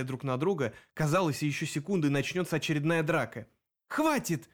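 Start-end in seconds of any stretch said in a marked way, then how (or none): 3.9-4.5 high, sharp stop-it cry; shouting. A narrator's reading. Greta shouts at the arguing werewolves. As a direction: cut the quarrel off with a cry. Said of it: "закричала в конце концов Грета".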